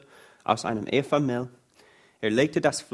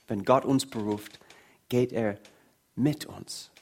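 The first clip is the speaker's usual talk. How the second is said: dropping quieter, letting it sink in; softer repeat. Shown as a demonstration. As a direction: say it again gently so it lands. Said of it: "repeated for the congregation". (leise, sanfte Wiederholung)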